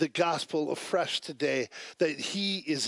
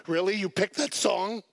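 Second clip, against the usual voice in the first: higher, indignant mock challenge; retold irritation, pitched up on the last words; mad retort; 4 semitones higher than usual. Preacher retells being mad at the worship leader, indignant. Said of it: "I am getting mad at the worship leader".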